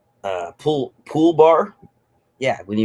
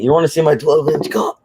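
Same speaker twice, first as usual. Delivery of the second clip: higher, lightly put-on English accent; 4 semitones higher than usual. Man imitating the guy at the pool, English accent. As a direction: quote it with a mock English accent. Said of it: "you know, with his accent".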